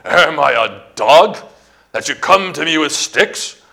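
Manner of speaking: lightly acted Philistine taunt; taunting yell. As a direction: challenge him scornfully, not at full yell. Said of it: "probably yelled tauntingly".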